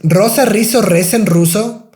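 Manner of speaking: Rosa Rizzo rattled off quickly; fast tongue twister. Shown as a demonstration. Teacher showing the twister at speed. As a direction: race through the twister. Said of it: "I'm saying a little bit fast".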